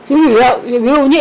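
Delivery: loud irritated mother, mock scolding; mom's angry retort. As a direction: imitate mom snapping at her daughter. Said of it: "이런 식으로". (화난 엄마 흉내, 큰 소리로)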